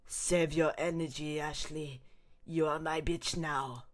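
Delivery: slow, sinister captor; menacing villain. Acted. Saddler gloating over the drugged Ashley, slow and menacing. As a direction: draw it out with menace. Acts cult leader villain.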